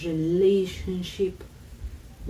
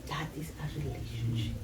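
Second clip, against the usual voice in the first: hushed whisper, much softer; 6 semitones lower, 5 dB quieter than usual. Real, not acted. Guest whispering the lesson to the host. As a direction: lean in and whisper it. Point made after mountain story.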